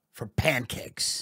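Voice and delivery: slow hushed whisper, as if confiding a treasure. Acted. Comic ode to America's pancakes, whispered slowly. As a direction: breathe it out slowly. Dreamy mock tribute to America.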